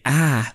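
'ah' mimicked as the flat vowel of 'cat'; imitated short 'a'. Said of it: "You don't say".

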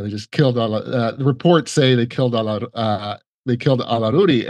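lightly imitated thick Israeli accent; a hint of a thick Israeli accent. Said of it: "this thick Israeli accent".

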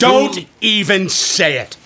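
sharp warning. Acted. Warns not to name Cthulhu.

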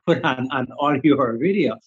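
usual speaking voice

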